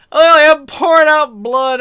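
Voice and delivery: high, loud, slow laughing words; high laughing slow exclaim. Retold or imitated. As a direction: giggle it out between laughs. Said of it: "I'm just laughing".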